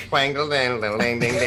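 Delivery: slow sung-out ding-ding noise; mock twangy tune made with the mouth; imitated twanging. Playful noise after the Southern bit.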